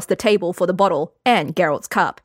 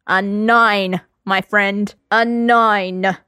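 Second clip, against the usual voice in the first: put-on slurred, brash drunk swagger; drunk rowdy Lambert; 2 semitones higher, slower than usual. Lambert drunk, mocking card.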